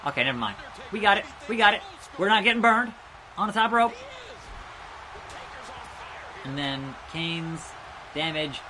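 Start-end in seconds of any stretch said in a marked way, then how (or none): 0.9-3.9 triumphant. Real, not acted. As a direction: celebrate the save at the screen. Game triumph.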